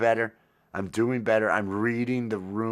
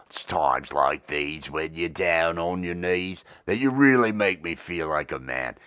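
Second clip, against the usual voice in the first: mock British accent; 4 semitones lower than usual. Teen punk singer crooning, terrible mock British accent. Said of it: "in a terrible mock British accent".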